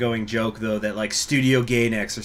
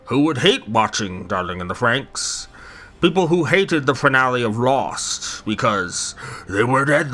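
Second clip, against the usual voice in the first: Churchill voice. Pretend. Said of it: "in Winston Churchill's voice".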